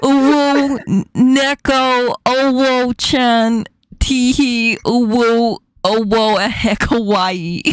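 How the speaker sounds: uwu words in an attempted New York accent. Shown as a demonstration. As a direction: recite cutesy syllables as a New Yorker would. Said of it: "How would a New Yorker say".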